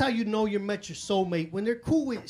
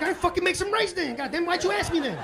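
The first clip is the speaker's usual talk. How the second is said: exasperated; 7 semitones higher than usual. Retold or imitated. His exasperated reply.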